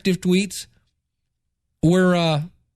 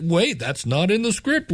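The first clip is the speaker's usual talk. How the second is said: mock flustered host, rising at the end; imitating panicked host. Host thrown when the guest goes off script, mock panic. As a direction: play a host caught off script. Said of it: "the host guy was kinda like".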